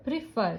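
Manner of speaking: "Prefer" with the weight on fer; stress on second syllable. Shown as a demonstration. Teacher checking stress with hand under chin, final syllable stressed. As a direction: lean on the last syllable of "Prefer". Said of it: "fur is stressed here".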